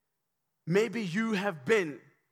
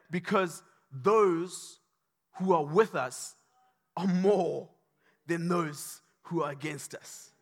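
slow calm assurance; 2 semitones lower, slower than usual. Acted. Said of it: "he says, Do not fear".

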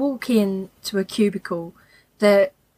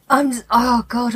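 breathless and wheezy; wheezing after laughing. Real, not acted. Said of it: "I sound so wheezy".

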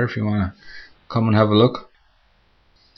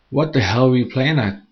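higher, louder furious demand; angry roar; 5 semitones higher, 5 dB louder than usual. Acted. Rescued woman rounding on her boyfriend, angry roar. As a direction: roar at him once you're safe. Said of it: "she roared at him".

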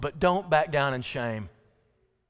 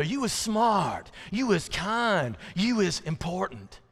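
put-on higher, slow nanny-and-child recital; saying it together; 4 semitones higher, slower than usual. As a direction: recite it slowly as if leading a little girl. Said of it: "And we'd say together".

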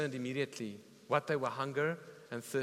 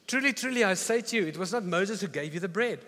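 higher, louder declaration; proclaiming Jesus; 5 semitones higher, 6 dB louder than usual. Retold or imitated. Preacher voicing Jesus answering the crowd, loud and firm. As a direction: ring it out as a firm correction.

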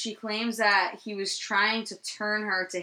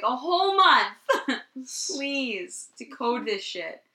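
a high, loud "A whole month?" tipping into pleading; mock incredulous; 5 semitones higher, 5 dB louder, slower than usual. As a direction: scoff at the offer, then beg, half laughing. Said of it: "They were like".

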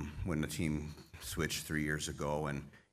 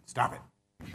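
getting emotional; 6 semitones higher than usual. Real, not acted. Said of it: "so I get a little emotional".

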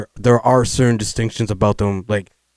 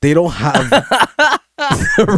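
laughing through words; 6 semitones higher than usual. Real, not acted. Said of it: "you just, you just".

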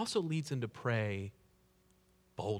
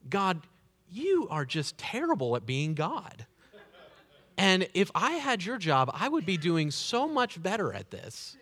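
in-your-face; 4 semitones higher, 3 dB louder than usual. Retold or imitated. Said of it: "this is the kind of in-your-face".

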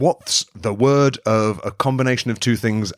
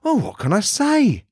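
mock anguish; 9 semitones higher than usual. Rising mock despair.

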